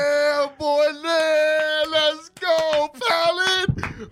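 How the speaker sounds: high excited cheering; high hype shout. Real, not acted. Hyping cheer.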